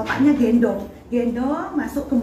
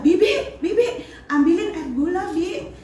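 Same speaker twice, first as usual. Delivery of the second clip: higher-pitched mock call to the aunt; retold yell; 6 semitones higher than usual. Mother calls aunt for sugar water, retold high yell. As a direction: re-enact calling out for help, without full volume. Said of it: "terus saya teriak".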